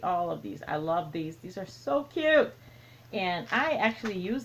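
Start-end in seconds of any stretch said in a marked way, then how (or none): 0.7-2.5 gushing. Real, not acted. Gushing over stitch markers.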